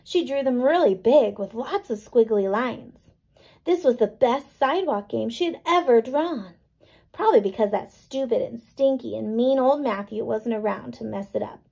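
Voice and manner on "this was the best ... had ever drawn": ordinary talk, nothing marked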